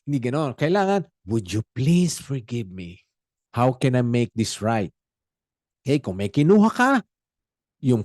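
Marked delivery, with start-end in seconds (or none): 1.2-4.9 humble request. Shown as a demonstration. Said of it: "it should be with humility".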